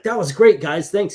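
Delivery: lightly acted hearty thanks to the crew; upbeat quoted praise. Retelling The Rock's friendly praise.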